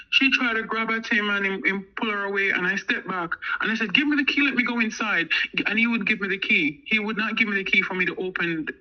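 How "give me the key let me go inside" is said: higher-pitched retold insistence; acted urgent demand. Woman wants to get safely inside, acted urgent demand. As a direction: re-enact pressing for it, voice raised in pitch.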